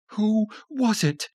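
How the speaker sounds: wife with knife demanding answer; menacing Tanya. A narrator's reading. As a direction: demand it slowly, threatening. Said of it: "Her good eye glared".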